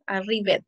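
ARRIVED Spanish-style, a-rri-ved; read as spelled. Shown as a demonstration. Teacher spelling out for students, ARRIVED read as written. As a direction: sound the final -VED of ARRIVED as a full syllable. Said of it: "no estoy pronunciando, estoy escribiendo".

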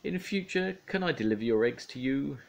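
high, weary farmer's plea. Acted. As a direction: beg him politely, exasperated. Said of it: "said the farmer".

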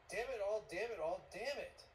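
loud, high burst of swearing; angry cursing. Acted. Montag curses before the guests.

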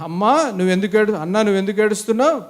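gentler, coaxing question to a wife; kindly asking husband. Shown as a demonstration. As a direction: ask her kindly why she is crying. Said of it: "కాదు, అక్కడ బాగా అన్నాడు". (భార్యను ప్రేమగా అడుగుతున్నట్టు)

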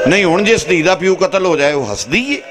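high-pitched, impassioned mourning cry; majlis lament. Acted. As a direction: plead the grief out high to the crowd. (ਉੱਚੀ ਸੁਰ ਵਿੱਚ ਦਰਦ ਭਰਿਆ ਮਸਾਇਬ)

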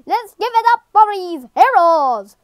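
odd put-on announcer voice; half-hearted rallying of a crowd; Albert. Game character calling for applause, lightly odd voice. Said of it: "Why am I doing an odd voice?".

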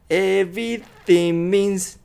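slow "Everything means", no G; G dropped. Shown as a demonstration. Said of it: "このGが消えて".

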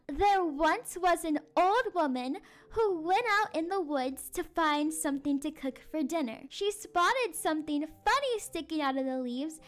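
expressive Halloween storytelling; story narration for children. A narrator's reading. Teacher reads a spooky, silly tale to children, storytelling. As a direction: read it aloud to a listening class.

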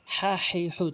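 "হা হে হু" with pressure in the throat; pressed throat sound. Shown as a demonstration. Teacher showing learners again, "হা হে হু" pressed in throat. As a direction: squeeze out each h in "হা হে হু". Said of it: "চাপ দিয়ে".

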